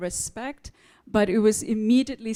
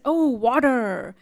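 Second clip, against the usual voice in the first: the server finally understands; clerk's realization; 3 semitones higher, 6 dB louder than usual. Retold or imitated. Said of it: "And she said".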